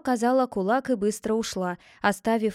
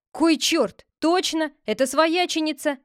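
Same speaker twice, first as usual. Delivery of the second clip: higher, louder startled exclamation; surprised cry; 6 semitones higher, 4 dB louder than usual. Acted. The men discover the sister-in-law inside. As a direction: gasp out the discovery. Shock at the reveal.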